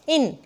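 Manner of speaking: "इन" said short in one jerk; quick jerk. Shown as a demonstration. Teacher shows an unstressed syllable, quick short "इन". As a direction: toss out "इन" in one quick beat. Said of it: "बिल्कुल झटके से बोल दिया".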